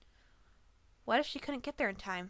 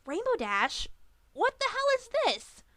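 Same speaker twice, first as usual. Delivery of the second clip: sudden much higher, louder angry cry; angry outburst; 13 semitones higher, 5 dB louder than usual. A narrator's reading. Griffin demands answers from her friend, angry. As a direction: flare up with anger. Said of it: "but twisted into anger".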